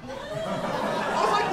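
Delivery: high, slow, laughing through the words; cracking up while setting up the line. Real, not acted. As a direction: comedian laughing at his own story. Laughing in disbelief.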